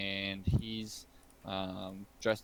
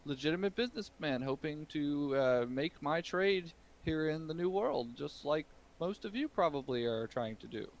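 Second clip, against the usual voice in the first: shopkeeper voice; 4 semitones higher than usual. Acted. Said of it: "He says".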